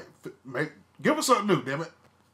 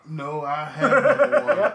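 laughing through the words, slow and loud; 3 semitones higher, 8 dB louder, much slower than usual. Real, not acted. Laughing as he reveals his number one to his cohost. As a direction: crack up while saying it.

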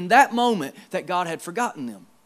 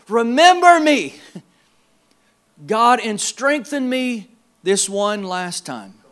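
crying out; 3 dB louder, slower than usual. Acted. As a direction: cry out for one last chance. Samson cries out to God.

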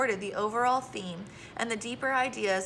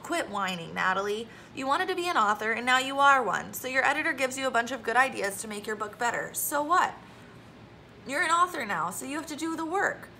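unsympathetic; 3 semitones higher than usual. Acted. Zoe telling Natalie to quit whining, impatient. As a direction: tell a friend to stop complaining. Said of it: "Zoe wasn't sympathetic".

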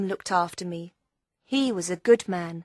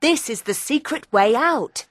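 very high, eager youngster's voice; acted youthful excitement; excited; 4 dB louder than usual. A narrator's reading. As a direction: announce the find with high-pitched excitement. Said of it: "said John excitedly".

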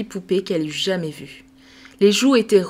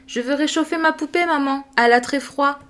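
put-on little girl answering; 5 semitones higher than usual. Sophie answers her mother.

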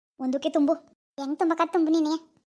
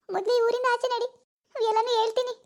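tearful; 3 semitones higher than usual. Acted. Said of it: "ಯಾಕೆ ಅಳ್ತಿದ್ಯಾ".

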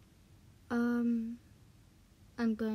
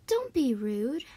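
louder, firm scold; 5 dB louder than usual. Acted. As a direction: tell them off sharply. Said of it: "this is for Chica".

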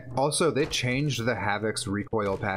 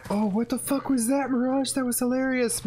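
excited laughing; 12 semitones higher than usual. Real, not acted. Reacting to funny Mirage line.

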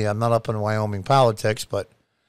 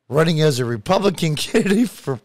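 laughing while reading; 3 semitones higher than usual. Real, not acted. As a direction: fight the giggles while reading the headline. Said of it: "I can't even read it without laughing".

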